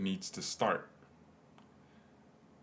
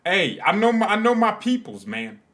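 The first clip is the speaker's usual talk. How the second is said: much higher and louder, gleeful boast; excited brag; 10 semitones higher, 9 dB louder than usual. Real, not acted. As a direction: crow about it like you just won. Bragging about knowing German clubs.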